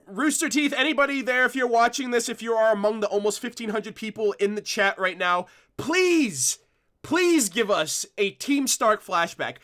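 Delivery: eager appeal to Rooster Teeth; excited plea. Real, not acted. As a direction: beg the studio with real excitement. Pleading to the studio.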